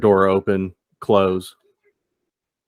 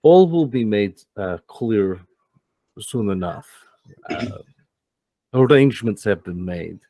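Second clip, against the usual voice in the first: scheming Max. Acted. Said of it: "He goes".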